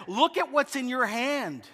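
mock forceful wife. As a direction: insist firmly. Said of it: "She's now saying it with more force".

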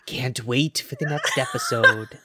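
lightly voiced very old woman; a hint of a crazed old lady; Annie Wilkes. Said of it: "I would like you to do it as Annie Wilkes".

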